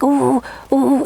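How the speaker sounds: wordless little bear-cub "ooh"; imitated bear-cub sounds. Imitating herself after throat surgery, little bear-cub noises. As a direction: coo like a voiceless little cub. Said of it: "I sounded like a little bear cub".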